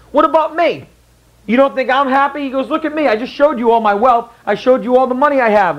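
high, whiny protest from a wounded king; indignant king. Retold or imitated. The rich king demands to be called happiest, high and indignant. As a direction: pitch it way up like a spoiled king.

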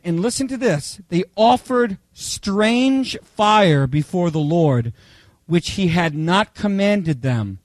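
slow, weighty Bible reading; solemn slow reading of the verse; scripture reading. Acted. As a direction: read the passage slowly so it lands. Reading scripture passage aloud.

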